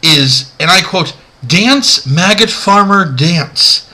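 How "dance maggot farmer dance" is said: mock TV dub. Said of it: "what he says in the dub".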